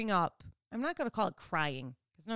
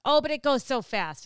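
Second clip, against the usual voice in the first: louder, sing-song mock old lady; sweet old lady; 5 semitones higher, 7 dB louder than usual. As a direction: imitate a sweet grocery-store lady.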